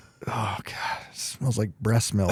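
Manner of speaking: muttering under breath. Retelling what the eight-year-old said while pulling a sock off: imitating muttering under breath. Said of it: "Just under his breath".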